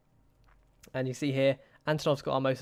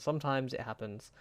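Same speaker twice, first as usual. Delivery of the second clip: much softer, resigned repeat; 7 dB quieter than usual. Real, not acted. Manager shrugging off the lost title, soft resigned repeat. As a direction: let it fade out in resignation.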